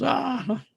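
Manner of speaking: high mock laugh; imitated laugh. Doctor laughing at the patient's story, imitated laugh. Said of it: "And he laughed. He goes".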